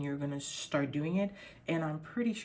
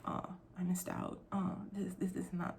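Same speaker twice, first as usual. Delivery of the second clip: regretful inner voice; 7 dB quieter than usual. Retold or imitated. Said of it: "being like".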